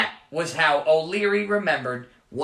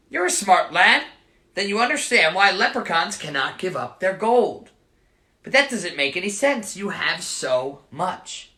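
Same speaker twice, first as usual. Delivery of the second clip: put-on light Irish accent; 2 semitones higher than usual. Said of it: "leprechaun voiced".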